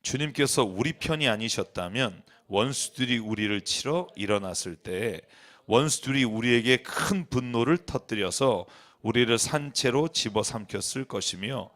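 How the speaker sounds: low, measured psalm reading; scripture reading. Real, not acted. Preacher reads the psalm to congregation, measured low recitation.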